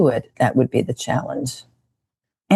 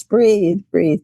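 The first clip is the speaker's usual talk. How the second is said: yoga teacher cue; 5 semitones higher than usual. Retold or imitated. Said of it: "our yoga teachers say".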